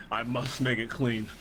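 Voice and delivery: slow, droning repeated mantra; Mister Clean mantra. Acted. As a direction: chant it slowly like a fixated cleaning robot. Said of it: "Mister Clean just sitting in there saying".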